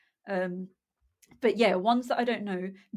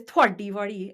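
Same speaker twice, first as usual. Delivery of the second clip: mild mock-angry, louder delivery; imitated anger; 6 dB louder than usual. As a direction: imitate a child saying it angrily. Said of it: "she said it with such, like, anger".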